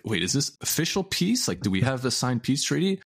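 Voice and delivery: high, baffled question, pitch jumping up; mock confused Germans. Confused German officials asking if the war is over, high baffled voice. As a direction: play the puzzled German officials.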